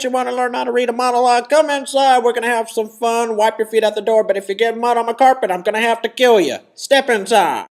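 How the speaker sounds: a horror host luring you in; creepy host voice. Acted. Creepy host intro, loud high.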